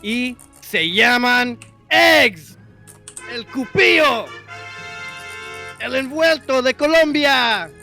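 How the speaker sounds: big booming ring announcer intro; lucha libre announcer. Pretend. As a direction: announce the fighters like a wrestling show. Mock Spanish ring intro.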